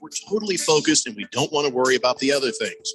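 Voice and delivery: upbeat host-read sponsor spot; radio ad read. Acted. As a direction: sell the sponsor to listeners with punchy emphasis.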